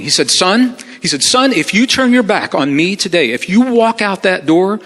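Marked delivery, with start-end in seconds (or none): 0.3-0.8 higher-pitched imitation of a condescending boss. Upset boss to departing employee, condescending. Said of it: "and very condescending". 1.2-4.8 imitated boss's threat, pitched up; very condescending. Upset boss threatening a departing employee, condescending. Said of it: "and very condescending".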